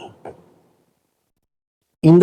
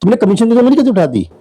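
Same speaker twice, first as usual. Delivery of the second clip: mock higher-pitched telling-off, falling on the final order; imitated scolding; 5 semitones higher than usual. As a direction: act out an official's indignant rebuke. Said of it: "तो डंके कहते थे".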